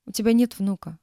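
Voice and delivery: ordinary delivery, nothing marked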